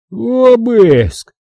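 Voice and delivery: slow booming order from the giant; the doorman orders guns on the table; rumbling monster. Acted. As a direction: rumble it like distant thunder. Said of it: "голосом, похожим на отдалённые раскаты грома".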